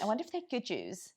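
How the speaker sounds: lightly imitated posher accent. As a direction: put on a slightly posher accent. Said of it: "In a very much posher accent".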